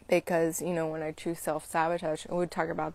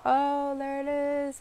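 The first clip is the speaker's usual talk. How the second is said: gently noticing; 9 semitones higher than usual. Retold or imitated. Acting out noticing a feeling.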